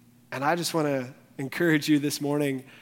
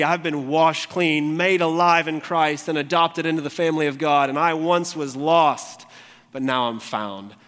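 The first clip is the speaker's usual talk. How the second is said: fervent proclamation; 5 dB louder than usual. Acted. Preaching redemption climax.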